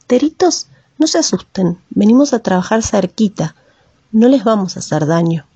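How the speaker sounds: lightly softened, reassuring words to the birds; calm the nervous birds gently; soft voice. Acted. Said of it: "con voz suave".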